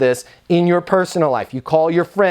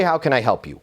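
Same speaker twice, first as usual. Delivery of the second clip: "How can I help you?" said lower and softer as the bad example; lower, wrong phrase; 4 semitones lower, 3 dB quieter, faster than usual. Shown as a demonstration. Trainer showing staff the phrase to avoid, lower. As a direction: drop the pitch on the don't-say line. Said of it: "Never say".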